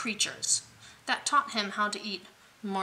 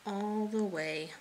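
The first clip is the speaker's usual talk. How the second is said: soft sleepy hush; 5 dB quieter than usual. A narrator's reading. Lulling to sleep.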